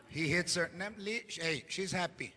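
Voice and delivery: gossiping under the breath about her; hushed gossip. Retold or imitated. Voices family gossip quietly.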